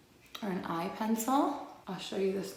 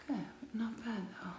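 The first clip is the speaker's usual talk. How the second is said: pleased whisper; 3 semitones higher, 7 dB quieter, much faster than usual. Real, not acted.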